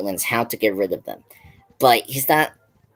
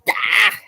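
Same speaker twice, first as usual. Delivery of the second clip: short, higher-pitched imitated scare cry; mock scary yell; 8 semitones higher than usual. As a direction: imitate a monster's sudden "ah" without full volume. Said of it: "Like, very scary thing".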